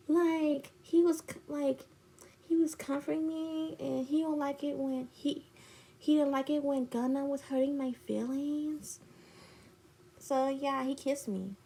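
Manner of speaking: high, soft put-on voice; imitated excuse-making friend. Friend explains the kiss, mock sheepish.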